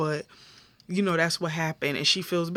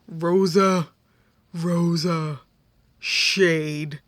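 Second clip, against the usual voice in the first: loud drawn-out callout; teasing callout; 3 dB louder, much slower than usual. Real, not acted. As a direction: call her out loudly, savoring it. Calling out Rosa's shade.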